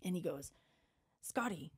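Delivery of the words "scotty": lightly imitated Spanish-accented teacher. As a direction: call the name with a hint of Spanish accent. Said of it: "in his, like, Spanish accent".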